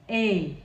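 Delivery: A said like the vowel in bird; teacher showing the Chichewa vowel; vowel sound A. Shown as a demonstration. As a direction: model A as in bird. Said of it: "Like A in bird".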